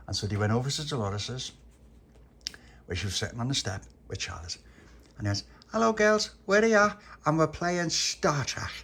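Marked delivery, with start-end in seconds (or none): 5.7-8.7 high loud call, slowing at the end. Acted. Pappy calling to Dolores and Charlotte, high loud greeting. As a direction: call across to the girls on the step.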